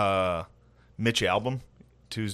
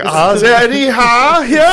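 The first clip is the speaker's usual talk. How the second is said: much higher, louder, badly faked Jewish accent; botched Jewish accent; 12 semitones higher, 10 dB louder than usual. Trying a Jewish accent as a joke, badly faked. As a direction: fumble a Jewish accent for a laugh. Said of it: "Can't do a Jewish accent".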